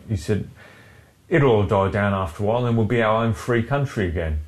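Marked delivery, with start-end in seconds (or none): 1.3-4.4 lightly hammed-up English regional accent. Co-host retelling a Brexit voter's street interview, hammed-up regional accent. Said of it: "nobody speaks like that in Cheshire".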